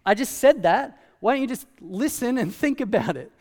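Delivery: hammed-up annoyance at the ruler; mock exasperated. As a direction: vent like you already explained it twice. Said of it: "I think I'd say".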